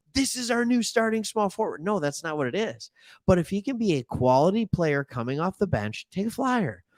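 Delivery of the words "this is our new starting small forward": mock bold, proclaiming announcer style, pitched much higher. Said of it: "I'm sitting here being like".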